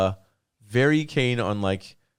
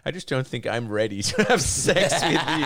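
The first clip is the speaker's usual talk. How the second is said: laughing through a quote; 2 semitones higher than usual. Retold or imitated. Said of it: "being like".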